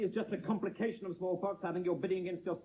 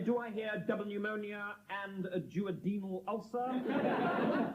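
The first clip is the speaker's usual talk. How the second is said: auctioneer's call; 3 semitones higher, slower than usual. Acted. Auctioneer asks for higher bid.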